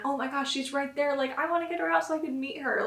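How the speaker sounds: put-on mother eager to meet her baby, excited. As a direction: let the joy spill over.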